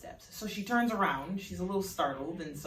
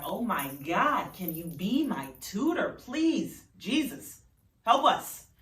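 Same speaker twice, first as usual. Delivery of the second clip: pleading; 3 semitones higher, 5 dB louder, slower than usual. Acted. Lila begs Samira to tutor her, desperate and loud. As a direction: beg her like she's your last hope.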